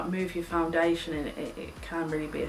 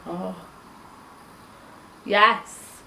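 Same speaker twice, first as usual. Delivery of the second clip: delighted yes; 5 dB louder than usual. Real, not acted. Delighted at bronzer result.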